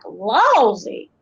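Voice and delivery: lousy drawn out in Appalachian dialect; homey Appalachian exclamation; Appalachian phrase. Shown as a demonstration. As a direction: say it in a mountain Appalachian accent. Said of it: "I could use phrases like".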